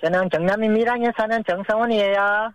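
half-hearted attempt at a childlike lisp; cute baby talk. Grown contestant introducing himself on request, mildly cute baby talk. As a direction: try a little cuteness, softened word endings. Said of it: "굉장히 귀엽게 혀".

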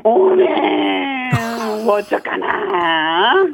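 drawn-out dialect sigh of surprise; Chungcheong exclamation. Shown as a demonstration. Caller demonstrates the dialect exclamation to the DJ, slow and drawn out. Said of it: "이렇게 감탄사예요".

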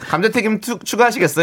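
a hint of scripted cashier politeness; businesslike counter clerk. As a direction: offer an add-on in a routine service tone. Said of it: "사무적인 말투죠".

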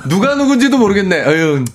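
high-pitched put-on grumble ending in a sigh; half-laughing show of having no interest; feigned disapproval. Husband dismissing girl groups for his wife's benefit, mock disdain. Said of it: "저는 무조건 비난합니다".

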